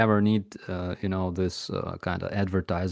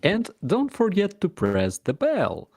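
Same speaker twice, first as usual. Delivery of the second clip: YouTuber outro voice; 8 semitones higher than usual. Pretend.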